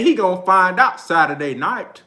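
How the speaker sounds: lightly imitated country UK accent; a touch of mock UK accent; Kell Brook's UK accent. Fan quotes a boxer's threat, light mock UK accent. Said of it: "Kell Brook got a fun-ass accent".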